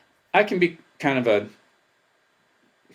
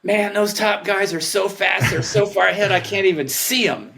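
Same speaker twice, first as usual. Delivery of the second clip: amazed inner thought; 8 semitones higher, 3 dB louder than usual. Retold or imitated. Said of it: "I'm like".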